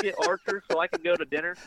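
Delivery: high put-on voice, mimicking his wife; mocking his wife. Mocking his wife's dinner plans, high whiny put-on voice.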